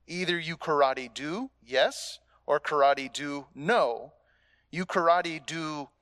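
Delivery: lightly voiced old karate teacher; mock sensei wisdom, no real accent; quoting Miyagi. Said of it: "how Mister Miyagi says it".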